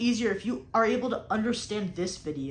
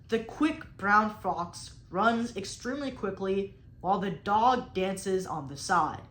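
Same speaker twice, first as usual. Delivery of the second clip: slow example sentence; slower than usual. Shown as a demonstration. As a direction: read slowly and evenly as a sample. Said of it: "I'll even give you one".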